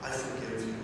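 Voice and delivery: soft, low, tender forgiving; tender God voice. Retold or imitated. God gently telling Israel he loves them, soft and low. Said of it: "he kept saying".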